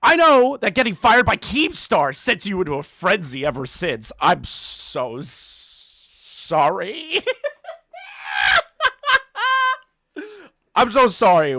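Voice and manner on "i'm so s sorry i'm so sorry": breaking into laughter mid-apology; laughing through a mock apology. Real, not acted. Creator cracking up while mocking the reviewer, laughing.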